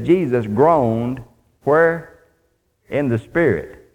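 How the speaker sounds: "Jesus groaned" drawn out slowly, then "In the spirit" set apart after a pause; slow down on "groaned" so the church notices it; stress on groaned and spirit. Shown as a demonstration. Preacher pointing the congregation to the verse, slow and stressed. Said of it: "I want you to notice".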